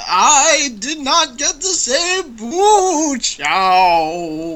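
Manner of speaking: slow, drawn-out theatrical read. Acted. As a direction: ham it up slowly like a ghost. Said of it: "I'll be theatrical".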